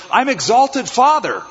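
high, a touch sheepish "I'm exalted father"; embarrassed answer. Acted. Abram telling travelers his name, mildly sheepish and high. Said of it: "It was embarrassing to say the name".

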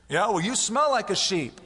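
put-on high, loud childish comeback; mock quarrel retort; petty retort. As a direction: snap back like a squabbling neighbor. Squabbling complainer voiced.

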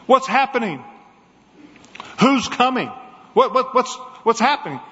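anxious questions. Acted. Blind man asking anxiously.

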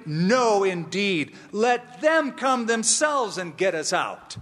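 mildly indignant, emphatic refusal; stubborn Paul. Retold or imitated. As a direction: imitate a prisoner digging his heels in. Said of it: "I mentioned Paul was stubborn".

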